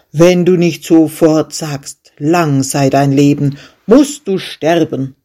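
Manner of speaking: a loud, cold threat from the king; angry king. Acted. Pale with anger, the king threatens the shepherd, loud. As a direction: threaten him with death. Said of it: "bleich vor Zorn".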